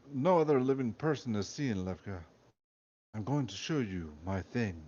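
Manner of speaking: a hint of a Russian commander confessing; light Russian accent, solemn; Russian commander, understated. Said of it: "premium Russian accent".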